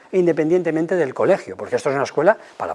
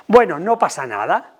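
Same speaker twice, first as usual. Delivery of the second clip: dismissive parent. Shown as a demonstration. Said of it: "¿Cómo sería quitarle importancia?".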